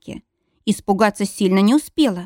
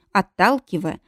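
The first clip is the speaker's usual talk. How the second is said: ordinary delivery, nothing marked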